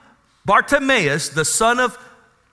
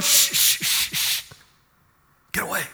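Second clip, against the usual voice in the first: unvoiced hushing then a soft get away; a mock shh shh, softer and breathless; shushing; 4 dB quieter than usual. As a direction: hush the beggar to keep him quiet. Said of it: "they're going".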